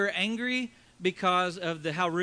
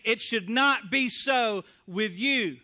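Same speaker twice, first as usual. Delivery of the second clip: preaching shout; slower than usual. Acted. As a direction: shout it out to the whole church, slowly. Preacher's climax to congregation.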